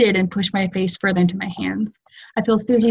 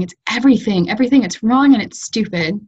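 frustrated outburst; 3 semitones higher than usual. Acted. Nora breaking down, frustrated.

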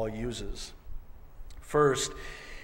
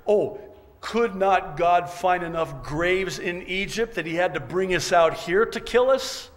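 loud, higher-pitched mock complaint; complaining; 5 semitones higher, 7 dB louder than usual. Israelites complaining to Moses at the Red Sea, loud complaint. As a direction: play up the grievance, raised in pitch and volume. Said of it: "they're complaining to Moses".

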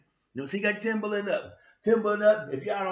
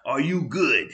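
laughing, incredulous retort; incredulous disbelief; 5 dB louder than usual. Retold or imitated. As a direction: scoff at a ridiculous question. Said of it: "I was like".

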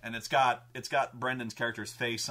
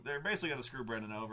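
ordinary talk, nothing marked

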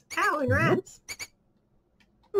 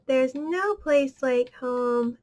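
Wizard of Oz line; slower than usual. Retold or imitated. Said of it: "Wizard of Oz".

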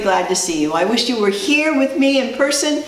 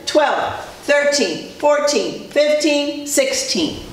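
put-on broad singsong kids theatre; 4 semitones higher, much slower than usual. Shown as a demonstration. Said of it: "Nice and loud so Mommy can hear".

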